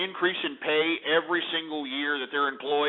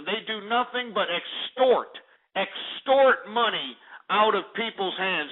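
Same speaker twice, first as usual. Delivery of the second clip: raised-pitch, hammering denunciation; emphatic declaration; 4 semitones higher than usual. Real, not acted. Host denounces unions to caller, emphatically. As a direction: drive each repeated point home, slowing on "extort".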